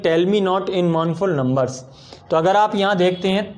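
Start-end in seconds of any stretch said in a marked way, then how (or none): 0.0-1.7 very slow, each word spaced out; slow recitation of a poetry line for students; slow poem reading. Shown as a demonstration. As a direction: read the verse line slowly and deliberately, marking the beat. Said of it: "ये बहुत सुंदर line है".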